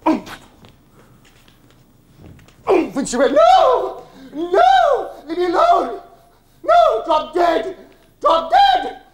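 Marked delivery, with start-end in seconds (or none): 0.1-0.5 short, loud, high grunt of impact; imitated shoulder hitting a door; effortful oomph. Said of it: "it was like an oomph noise". 2.7-3.0 short, loud, high grunt of impact; imitated shoulder hitting a door; effortful oomph. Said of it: "it was like an oomph noise". 3.3-9.0 very high, full-force shrieks; acted hysterical yelling, far above normal pitch; frantic screaming. Mother screams as door is rammed.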